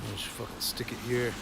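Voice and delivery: talking around a cigarette; words round a cigarette between lips; cigarette in mouth. Real, not acted. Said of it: "cigarette in my mouth".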